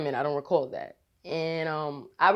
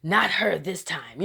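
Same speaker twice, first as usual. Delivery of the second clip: annoyed demon. Retold or imitated. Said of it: "with the most annoyed attitude".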